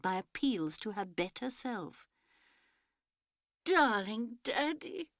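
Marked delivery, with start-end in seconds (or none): 3.6-5.1 a slow drawn-out wail, pitched up. A narrator's reading. Barbara wailing for her father. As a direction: cry out to Daddy in a wail. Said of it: "it was a wail from Barbara".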